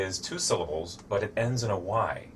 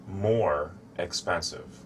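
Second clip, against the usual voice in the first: slow model phrase; slower than usual. Shown as a demonstration. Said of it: "you have to use the word".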